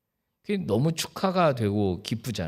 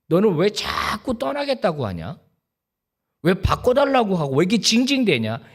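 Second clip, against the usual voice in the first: God scolding. Retold or imitated. God rebuking the whining pastor, building exasperated scold. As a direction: scold him like a weary father, rising to exasperation. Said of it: "정말로 그렇게 제가 느꼈어요".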